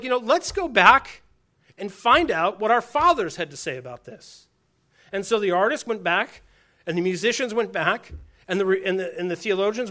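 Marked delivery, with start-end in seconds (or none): 0.0-4.5 eager mock realization. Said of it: "they suddenly were like".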